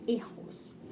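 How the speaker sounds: "erros" with R as airy h; softly modelled "erros", h-like R; soft blown R. Shown as a demonstration. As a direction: breathe out the middle of "erros". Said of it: "Ele é um som suave".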